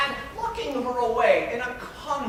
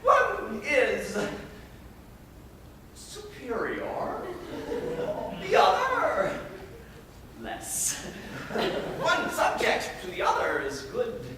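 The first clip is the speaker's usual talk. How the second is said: lightly voiced domineering guardian declaiming in verse; Arnulf. Arnulf telling his ward she must marry him, lordly and smug. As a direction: lay down the rules of marriage, smug and superior. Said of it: "I was to play the character of".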